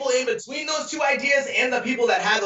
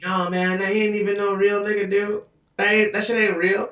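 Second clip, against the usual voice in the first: lightly voiced street-talk impression of a conspiracy believer; mock the conspiracy believers in a slangy voice; imitating conspiracy guys. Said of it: "Darren, why are you talking like that?".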